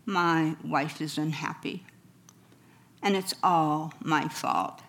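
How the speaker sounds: low, soft, defeated; a hint of a dejected husband. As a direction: say it quietly, beaten down. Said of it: "in a very dejected voice".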